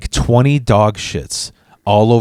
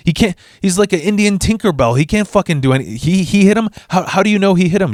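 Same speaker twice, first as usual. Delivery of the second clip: incredulous; 5 semitones higher than usual. Real, not acted. Incredulous rant at the mom.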